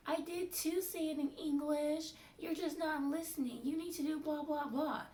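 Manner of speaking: high, loud imitation of a scolding doctor; mock angry boss. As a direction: snap back like a stubborn boss. Doctor voiced arguing back.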